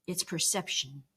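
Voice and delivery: gentle self-reassurance; calm inner voice. Pretend. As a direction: say it to yourself, calmly accepting. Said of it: "more strength to say".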